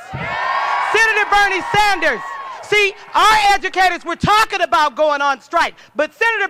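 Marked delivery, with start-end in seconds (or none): 0.1-2.2 "Bernie" slow and shouted; stress on Bernie. Shown as a demonstration. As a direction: hit "Bernie" hard and slowly.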